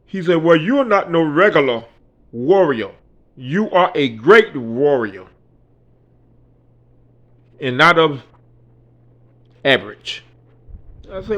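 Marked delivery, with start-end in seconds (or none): 0.4-10.2 put-on slow, solemn African-accented speech, a little louder; a light African accent, spoken slowly and grandly; imitating a Nigerian man. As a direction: retell him like a grave elder. The Nigerian man speaks again.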